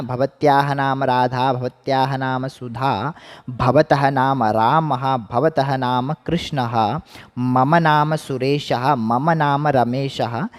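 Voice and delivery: slow, even recitation of the examples; slow model sentences. Shown as a demonstration. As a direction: recite each example slowly for students. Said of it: "फिर हमने पढ़ा था भवत्याः नाम".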